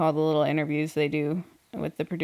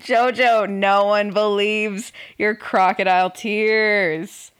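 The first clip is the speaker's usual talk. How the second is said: scornful rebuke; 4 dB louder, slower than usual. Acted. Mocking rebuke of fake crying contestant.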